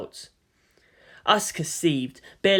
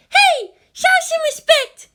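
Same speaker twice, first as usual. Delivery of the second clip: much higher, louder, slow scolding; stern Hikari; 8 dB louder, slower than usual. A narrator's reading. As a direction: glare and demand order. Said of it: "Hikari stood up as well and glared".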